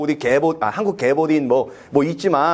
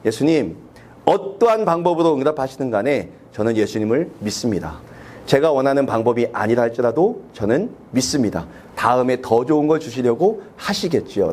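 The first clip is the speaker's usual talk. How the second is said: humble surrender; 5 semitones lower than usual. Pretend. Model prayer of surrender.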